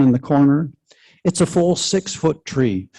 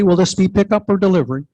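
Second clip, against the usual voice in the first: waitress voice; 4 semitones higher, faster than usual. Pretend. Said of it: "puts on my best waitress voice".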